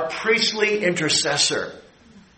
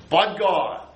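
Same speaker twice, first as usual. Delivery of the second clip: "But" hit high and falling onto "God"; weighty "But God"; 5 semitones higher than usual. Shown as a demonstration. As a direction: land the two words like a verdict. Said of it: "Preached a whole sermon just on those words".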